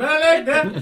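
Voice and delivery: botched, failed attempt at a Jamaican accent. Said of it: "Can you do a Jamaican accent?".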